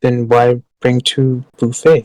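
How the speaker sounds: slow, simple orc question; slow broken-grammar orc. Acted. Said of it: "now she's, like, an orc voice".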